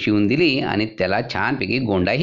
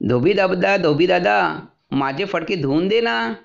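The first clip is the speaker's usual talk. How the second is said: mouse pleading; 7 semitones higher than usual. A narrator's reading. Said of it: "धोब्याला म्हणाला".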